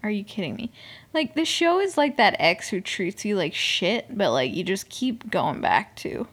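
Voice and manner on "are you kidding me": high start dropping to quiet outrage; mock outrage, dying down as it goes; retold anger. Viewer scolding the show over a cliffhanger, indignant. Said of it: "I was so mad".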